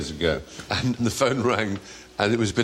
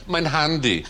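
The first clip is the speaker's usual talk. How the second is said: lightly camp German, "Mein Handy" said with a German "mein"; a touch of camp German; 2 semitones higher, slower than usual. Pretend. Mocking camp German phone talk, lightly voiced. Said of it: "so typically camp".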